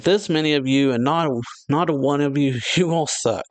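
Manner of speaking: retold rant with a laugh creeping in; mock scorn. Acted scorn at the crowd.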